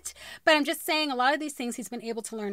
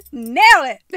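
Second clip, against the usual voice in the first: self pep talk; 14 dB louder than usual. Real, not acted. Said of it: "cheering herself on".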